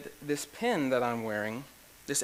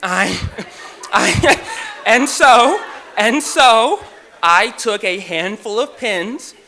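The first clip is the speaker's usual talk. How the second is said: much louder and higher, words bursting through laughter; cracking up mid-story, barely getting words out; laughing hard; 6 semitones higher, 14 dB louder, slower than usual. Real, not acted. Admitting to the audience he stole the pins, laughing hard. Laughing at his own pin theft.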